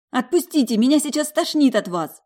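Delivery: high, loud squeal of disgust; squeaked. Acted. Alisa to the groping ex-husband, high squeaky plea. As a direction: squeak it out, cornered and revolted. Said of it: "пропищала моя коллега".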